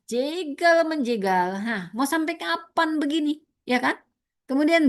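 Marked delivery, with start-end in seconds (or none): 0.1-1.6 slow emphasis. Acted.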